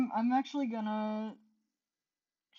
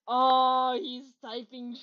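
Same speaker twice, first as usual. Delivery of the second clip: over-excited; 3 semitones higher, 6 dB louder, slower than usual. Pretend. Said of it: "I'm over-exaggerating this right now".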